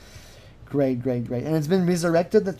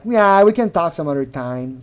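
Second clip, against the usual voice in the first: mock brush-off with a louder lead-in; uninvolved, off-putting; 5 dB louder than usual. Imitating a girl putting off a caller, uninvolved. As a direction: brush them off, imitating her lack of interest.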